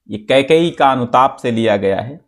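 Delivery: ordinary delivery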